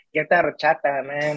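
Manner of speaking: small, put-on voice with Mexican accent. Retelling what people say to him all the time, in a small mexican voice. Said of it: "I got that small Mexican voice".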